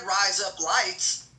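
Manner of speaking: "Rise up lights" slowly, word by word; repeating as taught. Shown as a demonstration. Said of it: "I said".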